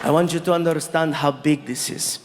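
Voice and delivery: low, earnest, formal prince; low and stately, lifting gradually towards the end; prince's voice. Retold or imitated. Prince telling the comic how big this is, low and earnest. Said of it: "He's like".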